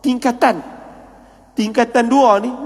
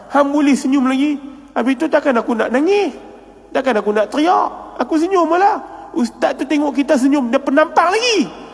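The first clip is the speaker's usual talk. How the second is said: mock-incredulous scolding, pitched up; retold scolding; 4 semitones higher than usual. Friends scold him for smiling at the ustaz, mock-incredulous telling-off. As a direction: scold a friend in mild disbelief, voice climbing.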